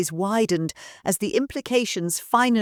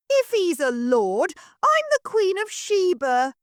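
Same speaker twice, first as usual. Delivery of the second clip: retorting; 13 semitones higher, 4 dB louder than usual. Acted. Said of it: "Mabel retorted".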